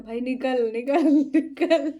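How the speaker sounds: urging the driver past the police, yelling and laughing; urgent laughing yell. Retold or imitated. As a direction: drag out the last words as the laugh takes over. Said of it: "मैंने कहा".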